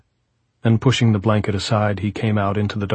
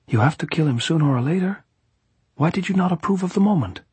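high-pitched, pressing gypsy voice; insistent gypsy; 9 semitones higher, faster than usual. A narrator's reading. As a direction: press the point as the gypsy plotter.

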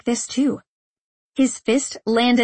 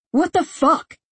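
furious roar; 6 semitones higher than usual. A narrator's reading. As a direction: bellow it in rage. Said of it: "he roared".

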